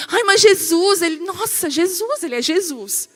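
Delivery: high, dramatic mock dismay; incredulous objection. Believer wondering about Jesus in a storm, incredulous. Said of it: "Porque você pensa assim".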